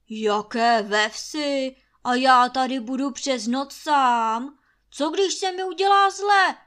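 agitated yelling. Acted. Master Trautenberg yelling, afraid to be left alone. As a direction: rant in fearful outrage. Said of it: "rozčiluje se Trautenberg".

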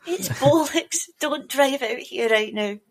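high, loud spoof public warning; hammed-up urgent traffic announcer; mock emergency broadcast. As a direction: warn the town in mock alarm.

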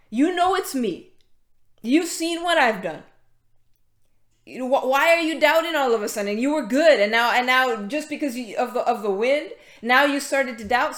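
mildly exasperated imitation of a scolding; acted rebuke. Preacher paraphrasing Jesus rebuking Peter, mildly exasperated. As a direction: lightly reproach a doubter, insistent. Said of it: "he rebuked him".

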